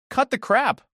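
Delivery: a loud, high snap at her; snapped. Retold or imitated. To lying sister Sarah, a loud high angry snap. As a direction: cut her off hard and loud. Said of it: "I snapped".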